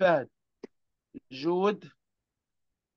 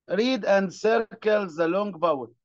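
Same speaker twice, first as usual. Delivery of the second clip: slow read-out instruction; much slower than usual. Shown as a demonstration. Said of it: "reading instruction to pupils".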